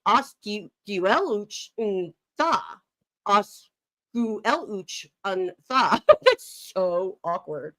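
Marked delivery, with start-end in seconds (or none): 0.1-6.0 slow, careful sounding-out; halting foreign phrase. Shown as a demonstration. Co-host trying an unfamiliar phrase aloud, halting and slow. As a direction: stretch each unfamiliar syllable slowly. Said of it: "if I had to say".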